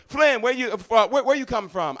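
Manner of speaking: loud, high barking demand; sergeant's shout. Retold or imitated. Drill sergeant catching the recruit, shouting. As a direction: yell at the private.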